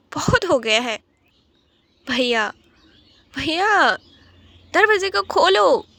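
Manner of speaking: little sister crying out to her brother to stop; desperate pleading cry. Acted. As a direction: beg someone to open the door, rising panic. Sister begs brother to stop beating.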